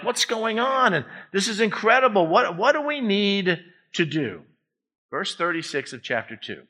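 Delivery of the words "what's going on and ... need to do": higher-pitched, amazed questioning; astonished crowd. Acted. Three thousand people after Peter's message, astonished questioning. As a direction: act out a crowd's urgent wonder. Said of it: "three thousand people are like".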